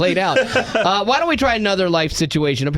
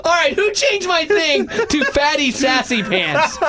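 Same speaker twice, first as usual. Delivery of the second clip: laughing indignation; 9 semitones higher than usual. Real, not acted. Laughing at nickname.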